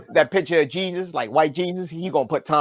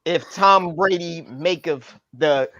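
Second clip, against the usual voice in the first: slow, solemn King James cadence; mock biblical preacher; slower than usual. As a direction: intone it like hammed-up scripture. Mock scripture about Tom Brady.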